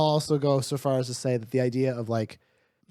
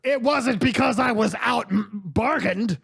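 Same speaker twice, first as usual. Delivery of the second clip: higher, lightly acted protest; mildly defensive boss; 6 semitones higher than usual. Lellard denies being beaten on a deal, mildly defensive. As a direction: protest it as a touchy businessman.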